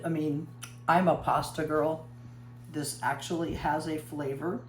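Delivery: talking through a mouthful; words round a bite of bread; mouth full. Real, not acted. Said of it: "Sorry for talking with my mouth full".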